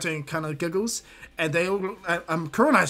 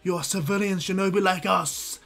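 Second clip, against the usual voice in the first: loud hammy Guy; 4 semitones higher, 4 dB louder than usual. Acted. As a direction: burst in shouting at your eternal rival. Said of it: "Guy smashes right through the door".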